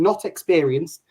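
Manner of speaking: not said slowly with a rise; slow stress on not. Real, not acted. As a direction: lean on not, drawn out. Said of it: "I'll point it out to anyone watching".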